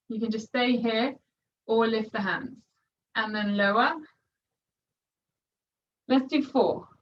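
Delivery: muffled voice, face down on the mat. Real, not acted. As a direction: talk with your face pressed into a mat.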